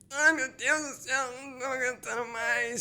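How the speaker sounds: high strained whine of someone struggling; mock the student straining in the plank; straining groan voice. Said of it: "Você faz voz de cocô".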